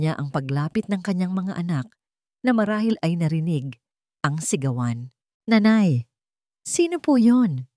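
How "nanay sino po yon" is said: put-on child's voice, higher and louder, slow and anxious; a small child asking her mother, worried. Child asks mother about the strangers, worried and high. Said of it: "puno ng pag-aalala".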